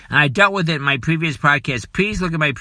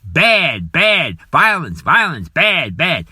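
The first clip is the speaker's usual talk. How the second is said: mocking the scolders; 3 dB louder, slower than usual. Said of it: "blasting us".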